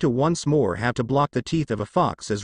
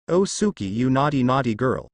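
pervy giggle. Acted. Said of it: "giggled Kakashi perversely".

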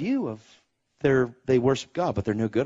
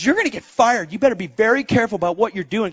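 worried wife; 9 semitones higher, 5 dB louder, faster than usual. Retold or imitated. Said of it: "She goes".

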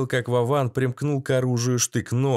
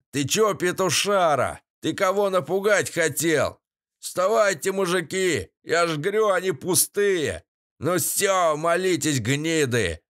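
jeering ringleader; 5 semitones higher than usual. A narrator's reading. Главарь банды орёт.

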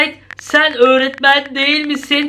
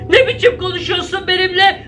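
indignant high outburst; 5 semitones higher than usual. Real, not acted.

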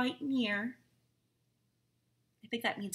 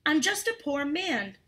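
whining plea; 4 semitones higher than usual. Acted.

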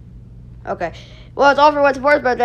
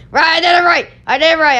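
triumphant; 3 semitones higher, much faster than usual. Real, not acted. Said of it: "I did it wrong".

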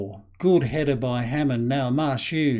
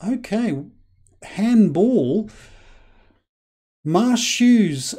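higher and louder, quick alert at the penalty; excited call; 7 semitones higher, 4 dB louder, much slower than usual. Real, not acted. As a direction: snap out the decision with a jolt of excitement. Penalty awarded, sudden call.

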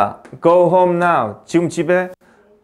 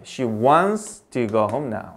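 slow dictation; 7 semitones lower, 5 dB quieter, much slower than usual. Shown as a demonstration. Teacher dictating example sentence.

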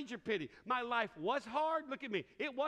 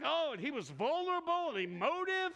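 higher, gushing mock-wife voice; mock swooning wife; 6 semitones higher than usual. Preacher mimicking a wife gushing over her husband's tears. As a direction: gush like a delighted wife. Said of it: "She'll be like".

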